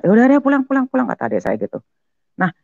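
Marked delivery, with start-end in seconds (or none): 0.0-1.1 high, louder retold shout; seruan mengusir. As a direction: imitate a brother shooing someone home. Adik menyuruh dia pulang. (menirukan seruan adik mengusir)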